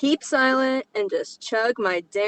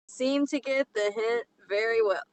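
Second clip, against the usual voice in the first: odd reading. Shown as a demonstration. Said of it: "I don't know why I read it like that".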